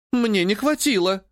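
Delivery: high, slow, petulant whine; sulky spoiled-girl excuse; capricious. A narrator's reading. Sister excusing the sold artifact, capricious. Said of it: "капризно ответила Юлианна".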